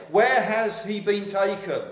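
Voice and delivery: high, loud and slow, anxious; Mary asking. Acted. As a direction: call out where he has gone. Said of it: "So she says".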